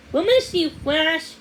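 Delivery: high, loud, rushed woman's voice; hurried lady. A narrator's reading. Lady hurrying to drop off the puppy, rushed and high. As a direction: gush it all out in a flustered rush.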